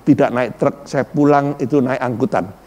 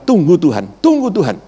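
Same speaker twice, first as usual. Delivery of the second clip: wife's words; 3 semitones higher than usual. Retold or imitated. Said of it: "istri saya bilang".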